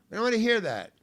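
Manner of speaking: high, loud shouted objection; heckler's shout. Retold or imitated. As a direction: shout it at the comic on stage. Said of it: "He didn't wanna hear".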